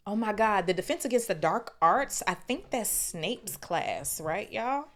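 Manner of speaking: gleeful interruption; excited aside. Real, not acted. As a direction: pop out of the story with excitement. Excited aside about teacher.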